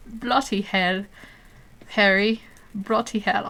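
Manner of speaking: rough British accent impression; lightly imitated British exclamation; Ron from Harry Potter. Streamer quoting a film character, attempted British accent. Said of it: "Ron from Harry Potter when he goes".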